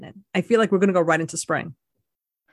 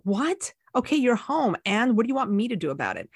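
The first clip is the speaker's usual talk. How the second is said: aloof cat; 3 semitones higher than usual. Retold or imitated. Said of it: "cats are like".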